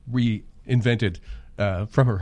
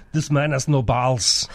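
imitated Arnold accent; slower than usual. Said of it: "and he says".

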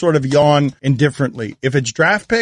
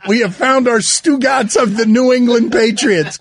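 laughing; 6 semitones higher than usual. Real, not acted. Laughing at the guard.

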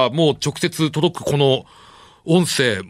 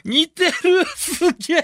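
excited, higher exclamation; amazed; slower than usual. Real, not acted. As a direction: gasp it out in awe. Amazed reaction.

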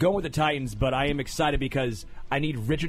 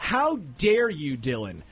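mock outrage; slower than usual. Mock outrage at co-host's pick.

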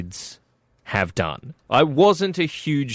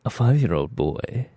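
sexy voice. Shown as a demonstration. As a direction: purr it like a seductive narrator. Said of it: "say that in a sexy voice".

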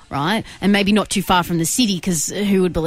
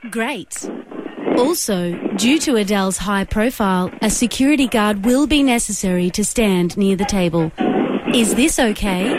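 automated operator voice. Pretend. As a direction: read it like a phone menu. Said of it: "automated operator voice".

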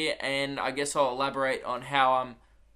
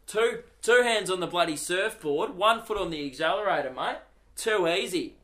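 higher, cocky Aussie surfer voice, a bit loud; Gold Coast surfer bloke; 4 semitones higher, 3 dB louder than usual. Retold or imitated. Comic mocking a Gold Coast surfer's brash bragging. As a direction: play the know-it-all bloke, high and brash.

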